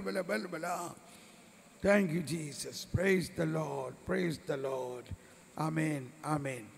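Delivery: rhythmic chanted prayer with tongues; fervent prayer. Acted. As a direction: pray it out with fervour. Leads fervent charismatic prayer.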